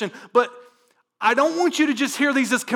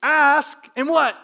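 loud, higher, urgent preaching; full-force preaching; 8 semitones higher, 6 dB louder than usual. Acted. Pastor urges his congregation to come to God, loud preaching. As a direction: drive it home to the room.

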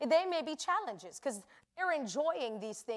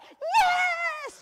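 high shouted Yes! of victory; triumphant yell; 10 dB louder than usual. Retold or imitated. Husband cheering after his dance, shouting high. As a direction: yell it like you just won. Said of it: "he was like".

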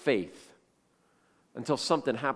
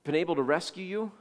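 loud, raised-pitch cry into the den; anguished call; 4 semitones higher, 6 dB louder than usual. Retold or imitated. King calls to Daniel near the den, anguished. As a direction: call out in anguish, drawing out the question. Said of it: "he called to Daniel in an anguished voice".

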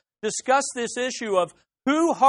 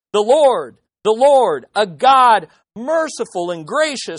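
louder, ringing scripture read; loud proclamation; 4 dB louder than usual. Acted. Preacher booming out God's name to the congregation, loud proclamation. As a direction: proclaim the Lord's name to the hall.

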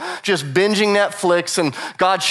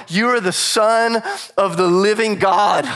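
shouted confession; slower than usual. Acted. Peter's climactic confession.

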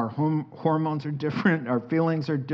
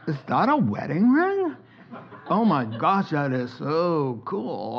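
mock gushing guy. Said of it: "I imagined two guys over there, like, going".

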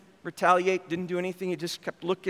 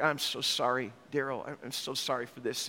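apologetic hush; 8 semitones lower, 8 dB quieter than usual. Retold or imitated. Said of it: "He's like".

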